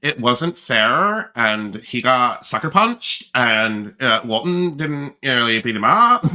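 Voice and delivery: drawn-out mock complaint; slow, whiny retelling; mock whining. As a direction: imitate a sore loser, dragging out the words. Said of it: "the other version of the story".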